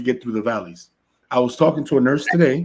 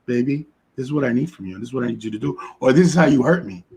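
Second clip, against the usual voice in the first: soft tender plea; faster than usual. Retold or imitated. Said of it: "look at him and say".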